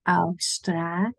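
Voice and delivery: Australië with a long drawn A. Shown as a demonstration. Teacher drawing out Australië for learners. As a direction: stretch the A in Australië. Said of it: "make it long".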